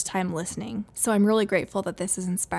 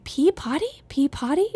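imitating toddler; 7 semitones higher than usual. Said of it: "he was saying".

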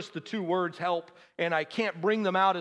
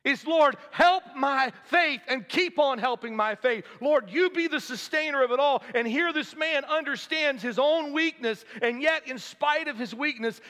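raised, high-pitched pulpit delivery; impassioned preaching; 7 semitones higher, 3 dB louder than usual. Acted. Preacher urges congregation toward faith in God, impassioned preaching. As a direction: press each phrase home to the congregation.

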